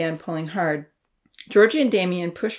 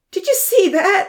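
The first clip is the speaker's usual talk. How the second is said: laughing loudly; 13 semitones higher, 7 dB louder than usual. A narrator's reading. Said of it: "Odin laughed loudly".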